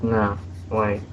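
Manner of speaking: Ed from What the Future, lines rattled off quick; Ed impression. Voice actor showing fans his Ed impression, quick and animated. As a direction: act out Ed's cartoon scene, hoarse from a cold. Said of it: "this is my impression".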